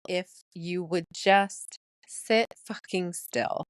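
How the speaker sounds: slow, deliberate, partly whispered; hushed title reveal. Shown as a demonstration. Podcaster revealing her album title to listeners, slow and hushed. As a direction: draw it out, slipping into a whisper.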